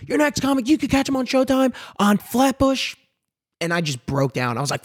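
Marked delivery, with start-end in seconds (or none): 0.1-3.0 host intro. Retold or imitated. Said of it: "I'm like".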